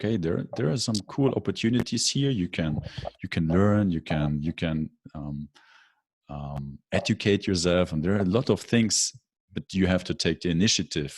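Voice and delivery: rally your friends; upbeat coaxing to refugee friends; encouraging. Retold or imitated.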